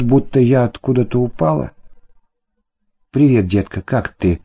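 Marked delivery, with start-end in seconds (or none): 3.1-4.4 a touch of fawning, slightly lower; lightly voiced sweet-talking husband; mild wheedling hello; ingratiating. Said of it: "заискивающий голос".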